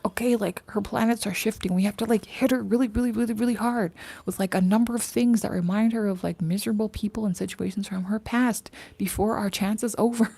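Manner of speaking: scheming demons voice. Retold or imitated. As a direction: play the demons plotting against her. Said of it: "They're like".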